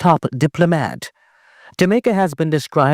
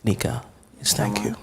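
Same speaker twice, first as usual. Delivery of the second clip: teary-eyed; 4 semitones lower, 9 dB quieter than usual. Real, not acted. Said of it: "I'm getting a little teary-eyed".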